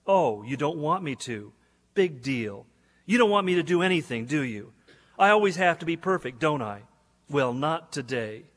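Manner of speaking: harsh and direct. Retold or imitated. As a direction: snap back at God, bitter and defiant. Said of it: "My response was harsh and direct".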